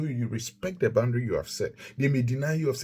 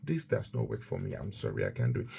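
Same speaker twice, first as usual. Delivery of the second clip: steady, even no with no drama; calm, firm refusal; 2 semitones lower, 4 dB quieter than usual. Shown as a demonstration. To someone asking a favour, a calm firm refusal. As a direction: decline calmly and firmly. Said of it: "Boundaries have to be communicated calmly, firmly, respectfully".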